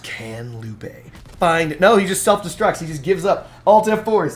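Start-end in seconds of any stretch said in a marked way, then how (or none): 0.0-0.9 grand, epic, dramatic movie-trailer announcer voice. Asking whether lupe can find it in epic announcer voice. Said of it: "let's use epic, epic announcer voice".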